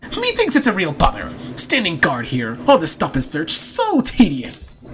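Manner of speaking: hammed-up tedium, stretching the last words; exasperated complaint. Guard complaining about standing watch, exasperated and drawn out.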